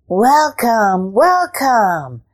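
a hint of purring welcome from the cats; cat greeting. A narrator's reading. Cat courtiers welcoming Ivan, lightly voiced cats.

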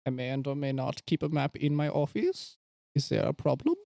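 lightly put-on evasive doctor voice; lightly voiced doctor. Doctor answers visitors asking for a map, evasive. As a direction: play a cagey doctor, lightly. Plays Doctor Valentine in scene.

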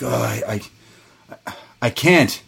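halting, imitated reluctance; acted stammer with long breaks; hesitant stammer. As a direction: stumble over the start, then give up. Acted wrestler hesitating to finish it.

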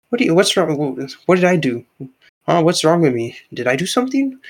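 confused and defensive, voice jumping up; baffled protest. Retold or imitated.

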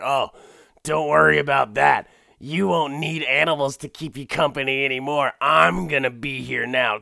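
put-on high, loud cheery old man; hammed-up doting husband. Husband promises constant attention.

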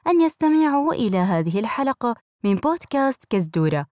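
airport announcement. Acted.

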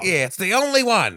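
loud, high, gloating villain; hammy villain voice. Retold or imitated. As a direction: keep hamming the villain. Still in the villain voice.

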